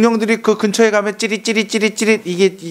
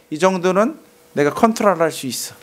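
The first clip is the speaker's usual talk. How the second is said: ordinary talk, nothing marked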